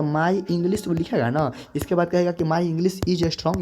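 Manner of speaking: slowed, careful reading; deliberate teacher pace; slow example. Shown as a demonstration. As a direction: read the wrong sentence out slowly.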